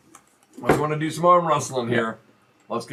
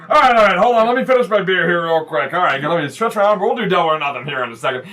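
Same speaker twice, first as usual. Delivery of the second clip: stalling wrestler; 2 semitones higher than usual. Acted. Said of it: "He goes".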